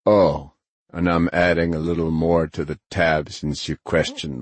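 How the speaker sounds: measured, slightly gruff character voice; lightly voiced Grinner, unbudging. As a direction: drive home the bill, understated.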